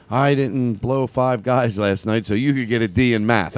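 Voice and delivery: slow, deliberate parent confession; joke voice of a parent. Acted. Comic telling of his parent bit, slow. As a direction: spell out the sacrifice like a worn-out parent. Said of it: "it started with me saying".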